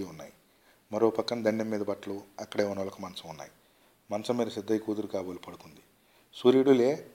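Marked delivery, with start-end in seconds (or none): 6.3-7.1 higher, louder wake-up call; waking someone. A narrator's reading. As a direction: call out to rouse a sleeper. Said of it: "అంటూ తట్టి లేపాడు".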